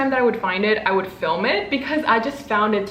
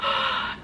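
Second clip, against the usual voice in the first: soft, high gasp; awed gasp; 5 dB quieter than usual. Real, not acted. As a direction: gasp softly in wonder. Looks closely at pin.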